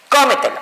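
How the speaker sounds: "cómetelo" with the weight on "có"; "cómetelo" stressed at the very start; stress on first syllable. Shown as a demonstration. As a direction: hit the first syllable of "cómetelo", let the rest fall. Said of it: "su posición fuerte recae en".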